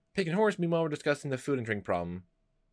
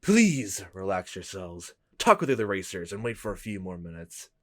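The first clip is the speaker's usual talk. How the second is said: demonic voice; 4 semitones lower, 3 dB louder than usual. Acted. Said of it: "Okay, that's a bit better".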